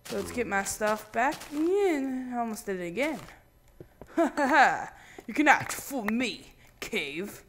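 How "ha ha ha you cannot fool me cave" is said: mock villain laugh. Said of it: "talking in dramatic voice".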